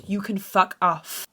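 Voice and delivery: slow, measured "You can fuck off"; articulated dismissal. Retold or imitated. Daughter dismissing mum on the boat, measured and articulated. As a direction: say "You can fuck off" deliberately at talking level. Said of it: "I'm articulating perfectly".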